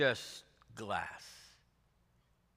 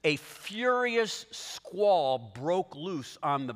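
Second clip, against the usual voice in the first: slow dramatic reading; much slower than usual. Acted. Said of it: "it says".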